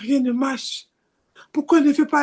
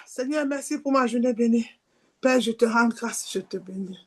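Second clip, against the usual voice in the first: mock pious prayer; 3 dB quieter than usual. Mocking hypocrite's evening prayer.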